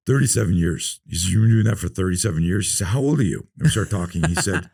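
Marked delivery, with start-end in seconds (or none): 0.1-3.5 amazed, rising questions; surprised. Retold or imitated. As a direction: gasp at the number. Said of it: "And he goes".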